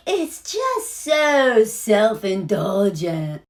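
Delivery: mocking Kara's prim judgment; slow mock disdain. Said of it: "And then Kara's like".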